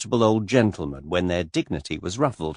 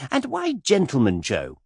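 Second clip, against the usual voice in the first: put-on much higher, girlish gushing voice; skittish young lady; 8 semitones higher than usual. A narrator's reading. Miss Taylor pestering Mister Cade, high and gushing. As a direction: flutter up high like a giddy girl.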